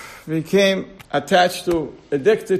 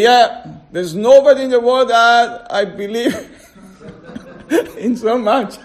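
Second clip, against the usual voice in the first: high and loud, laughing through it; man on the tree eagerly swearing belief; laughing eager reply; 5 semitones higher, 4 dB louder than usual. Acted. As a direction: gush with a laugh.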